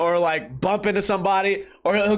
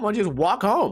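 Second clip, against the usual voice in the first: plain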